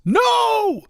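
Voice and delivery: high, loud retold scream at full pitch; imitated top-of-the-lungs shriek. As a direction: scream it out like the sleeper did. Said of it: "Top of her lungs".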